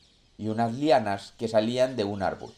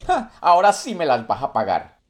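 silky menacing villain; 5 semitones higher, 7 dB louder than usual. Acted. Monkey takes revenge, burning puma.

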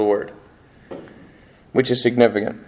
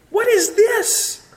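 mock shock; much slower than usual. Shocked reader voiced.

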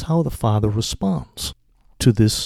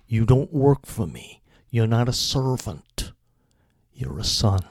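gentle father; 4 semitones lower than usual. Acted. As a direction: speak it like a kind father calming his son. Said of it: "in a very gentle way".

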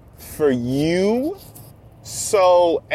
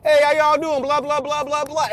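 friendly greeting; 9 semitones higher than usual. Retold or imitated. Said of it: "introduced himself".

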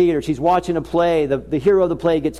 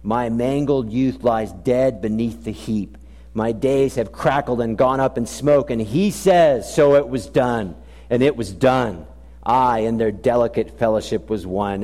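poem recital; 5 semitones lower than usual. Shown as a demonstration. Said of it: "the line of the writer goes like this".

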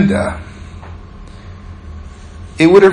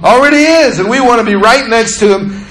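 eager, higher-pitched acclaim; excited disciples; 5 semitones higher than usual. Acted. Disciples wanting seats beside Jesus, excited. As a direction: proclaim it high and keen, as eager followers.

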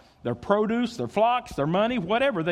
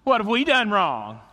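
lightly voiced sulky teenager; a hint of whiny teen pushback; mild mock teenager talking back; teenage voice. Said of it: "in your best teenage voice".

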